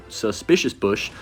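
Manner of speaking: slow, careful suspicious bush. Shown as a demonstration. Retrying the tricky card name slowly for viewers. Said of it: "that's a tongue twister for me".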